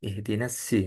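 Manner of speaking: "ihdinas si" with a plain light s; sad read as sin. Shown as a demonstration. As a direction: recite "ihdinas si", thin s instead of heavy sad. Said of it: "sodnya dibaca sin".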